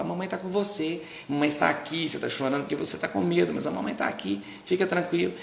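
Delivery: a touch of a gentle mother comforting; soothing mother. Shown as a demonstration. Mother soothing her crying baby in the crib, gently reassuring.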